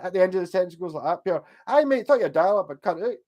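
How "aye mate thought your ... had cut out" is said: Dundee accent. Shown as a demonstration. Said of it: "they could do the Dundee accent".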